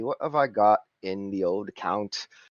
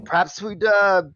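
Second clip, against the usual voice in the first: higher, louder cockney geezer voice; cockney accent; 9 semitones higher, 4 dB louder than usual. Acted. GM as Simon greeting the crew, cockney accent. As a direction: play a chummy cockney fixer. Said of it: "Durier's reaction to the speaker's accent".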